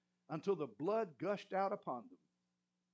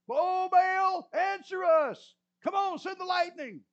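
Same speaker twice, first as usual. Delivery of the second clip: much higher, much louder desperate plea; crying louder; 13 semitones higher, 12 dB louder, slower than usual. Retold or imitated. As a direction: cry out to Baal, slow and huge. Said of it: "They cried louder".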